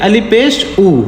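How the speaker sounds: "ऊ" as a long oo; teacher's demonstration of oo on "ऊ"; long "ऊ" sound. Shown as a demonstration. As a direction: spell out alif pesh, then sound "ऊ" as oo. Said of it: "ऊ पढ़ेंगे".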